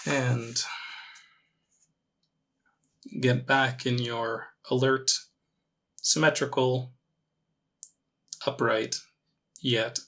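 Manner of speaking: calm meditation guide, long pauses between phrases; measured, gently leading meditation voice; guided meditation. Acted. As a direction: ease them into it with unhurried, spaced-out instructions.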